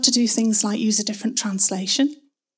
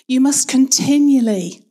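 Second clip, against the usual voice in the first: "continually" pushed louder than the rest; stress on CONTINUALLY; 3 semitones higher, 6 dB louder than usual. Shown as a demonstration. Preacher emphasizing the next word in turn, stress on "continually". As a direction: punch "continually" and draw it out. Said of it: "emphasize each word in turn".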